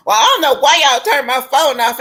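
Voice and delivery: mock yell. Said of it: "he was yelling at this woman".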